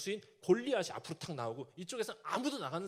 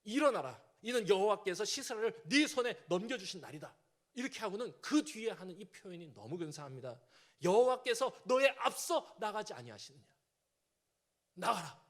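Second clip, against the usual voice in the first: encouraging; 3 dB louder than usual. Retold or imitated. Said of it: "힘주는 표현을 하는데요".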